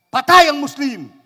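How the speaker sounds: high, loud sudden exclamation; comic high-pitched yell; shouted announcement. Acted. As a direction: cry out the death in alarm. Announces the jumper's death.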